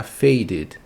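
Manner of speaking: faded with an added "id" syllable; -ed como "id". Shown as a demonstration. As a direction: say faded in two syllables, ending "id". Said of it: "id no final". (faded com "id" no final)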